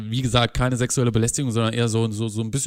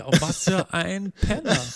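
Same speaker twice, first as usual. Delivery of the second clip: higher, drawn-out mock disgust; imagined woman's disdain; 5 semitones higher, slower than usual. Man voicing the woman reading his old chats, mock disdain. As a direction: dismiss him in a slow, raised voice. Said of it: "dann denkt sie".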